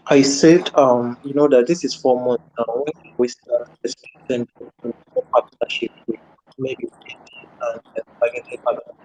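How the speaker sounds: mic cutting out, broken audio; choppy connection dropping words; scrambled voice. Real, not acted. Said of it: "your mic is cutting out pretty bad".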